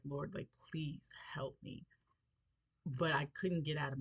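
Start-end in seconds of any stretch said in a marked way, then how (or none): 0.0-1.8 slow, breathless whisper to God; whispered prayer. Retold or imitated. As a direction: pray under your breath, slowly and pleading. Desperate whispered prayer on plane.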